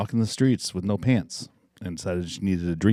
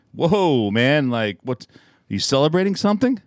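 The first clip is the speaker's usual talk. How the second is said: excited bartender voice; 5 semitones higher, slower than usual. Acted.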